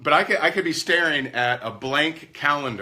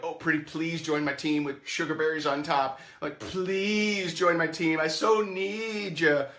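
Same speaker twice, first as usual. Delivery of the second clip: needy pleading; 4 semitones higher, slower than usual. Retold or imitated. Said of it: "someone you need".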